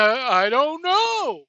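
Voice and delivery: slow, smug mock shrug; lightly voiced smirking podcaster; smug Dave impression. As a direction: play it off with a grin. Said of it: "with the smile on my face, with a little shit-eating grin".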